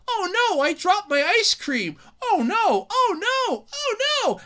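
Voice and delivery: high squeaky fake panic, rising; hammed-up oh no cries; mock distress. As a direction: play a whining kid who dropped ice cream. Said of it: "they're like".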